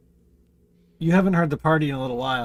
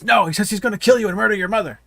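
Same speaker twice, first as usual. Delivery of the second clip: sword voice; 7 semitones higher, 7 dB louder, faster than usual. Acted. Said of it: "and the sword says".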